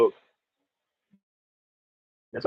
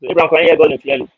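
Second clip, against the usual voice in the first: calling out; 5 semitones higher, 9 dB louder, much faster than usual. Real, not acted. Calling to Abraham on bad line.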